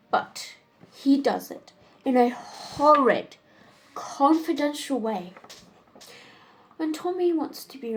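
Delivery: lightly acted Wildean lady, measured with dramatic pauses; exasperated society woman, theatrical. Woman complaining over dinner about her lover's dull proposals, theatrical exasperation. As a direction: complain wittily, lingering on the emphatic words.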